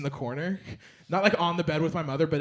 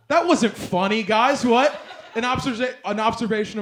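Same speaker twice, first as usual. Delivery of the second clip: laughing protest; 6 semitones higher, 5 dB louder than usual. Real, not acted. Mock offended at crowd laughter.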